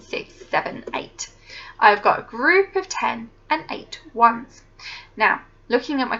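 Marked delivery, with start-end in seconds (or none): 0.0-1.3 whispering. Acted. Counting, whispered end of sequence.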